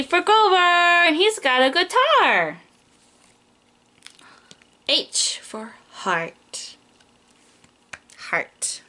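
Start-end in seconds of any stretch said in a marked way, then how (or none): 4.9-6.8 whisper. Acted. Reading alphabet book to child. 8.2-8.8 whisper. Acted. Reading alphabet book to child.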